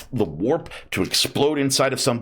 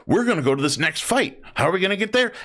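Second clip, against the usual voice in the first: orc voice; 9 semitones higher than usual. Retold or imitated. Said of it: "just by saying".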